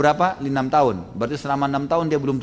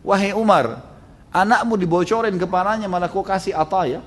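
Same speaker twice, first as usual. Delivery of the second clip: higher-pitched indignant reproach; retold scolding; 6 semitones higher than usual. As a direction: take your husband to task. Wife scolds Umar for rewarding child.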